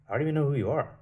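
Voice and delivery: loud, high incredulous comeback; loud high indignant reply; indignant retort. Retold or imitated. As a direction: fire it back loud and high in disbelief. His retold retort to stranger.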